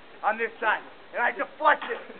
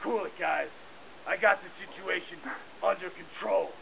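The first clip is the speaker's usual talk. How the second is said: lower, softer tough-guy calm; dropped macho voice; 3 semitones lower, 5 dB quieter than usual. Acted. Crew leader calms his scared scouts, in a lower macho voice. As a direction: drop the voice to sound manly. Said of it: "You see my voice drop".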